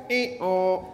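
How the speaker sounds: lightly mimicked donkey noise; donkey bray. Shown as a demonstration. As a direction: demonstrate a donkey's hee-haw for children. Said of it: "I'd like you to go".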